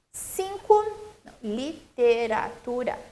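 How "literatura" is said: "literatura" measured out in five syllables. Shown as a demonstration. Teacher confirming the count, "literatura" in five distinct syllables. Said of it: "cinco sílabas".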